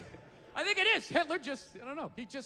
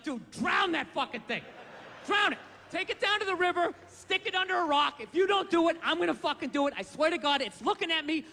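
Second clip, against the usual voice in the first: frantic, higher and louder outburst; panicked yelling at a baby picture; 3 semitones higher, 3 dB louder than usual. Retold or imitated. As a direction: shout it like the baby photo scares you. Acted panic at baby photo.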